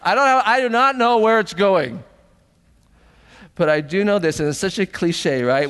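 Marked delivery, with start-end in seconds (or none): 0.0-2.0 laughing through the words, higher and louder; a real laugh breaking into the line. Real, not acted. Laughs at own lack of plan.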